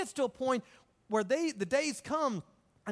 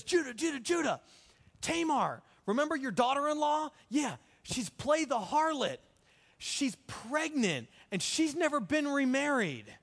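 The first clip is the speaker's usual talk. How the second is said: raised-pitch, breaking-news delivery; urgent messenger; 4 semitones higher than usual. Retold or imitated. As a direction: report the scandal urgently, as a messenger. Excited messenger runs up with scandal.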